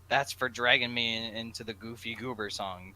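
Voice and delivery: Jack's voice. Acted. Jack voiced loud.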